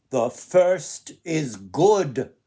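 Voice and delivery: slow, loud, measured voice of the sun; slow solemn sun. Acted. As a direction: pronounce each word slowly like a great being. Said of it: "the sun replied".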